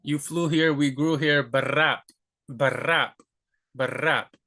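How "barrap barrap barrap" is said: barrap with a trilled R; rolled R in barrap. Shown as a demonstration. Teacher shows the trilled R in barrap. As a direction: roll the R in barrap. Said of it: "If you can already say barrap".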